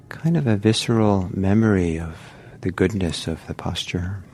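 unhurried guiding voice with long pauses; guided meditation. Real, not acted. Teacher settling meditators into posture and breath, unhurried guided meditation. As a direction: ease them gently into the practice, leaving space.

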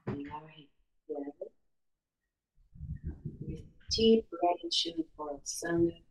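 hushed, unhurried calm of a healer; airy breathy mystical healer. Acted. Leads a guided meditation.

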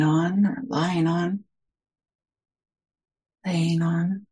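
unhurried meditation guidance with long pauses between phrases; guided meditation. Real, not acted. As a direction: gently guide listeners into settling, phrase by phrase.

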